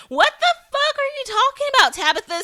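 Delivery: incredulous yelp at the show; exasperated outburst. Real, not acted. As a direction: blurt it out at the screen in disbelief. Exasperated reaction to character.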